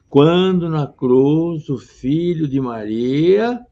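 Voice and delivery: slow rising verse reading; slow recitation. Shown as a demonstration. Teacher resumes the verse slowly for the students. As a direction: draw the line out slowly. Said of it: "então vamos continuar".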